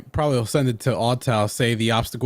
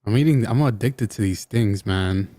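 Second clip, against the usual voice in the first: talking while chewing a snack; words round a mouthful; mouth full; slower than usual. Real, not acted. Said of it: "What are you eating?".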